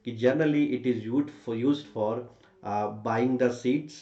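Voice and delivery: slow, spaced-out dictation; dictating. Shown as a demonstration. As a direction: say it slowly for students to write down. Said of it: "तो मैं बोल देता हूँ".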